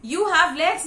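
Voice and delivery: a loud, high irritated shout. A narrator's reading. Uncle shouts at the complaining farmer, impatient and loud. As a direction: bark it back impatiently. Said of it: "my Uncle Khusrov shouted".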